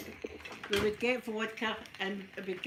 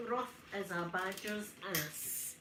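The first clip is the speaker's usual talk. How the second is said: "Rough as a badger's ass" said slowly and softer, savouring each word; slow repeat; 6 dB quieter, slower than usual. Shown as a demonstration. To a viewer about her accent, she slowly savours the phrase. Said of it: "my accent is as rough".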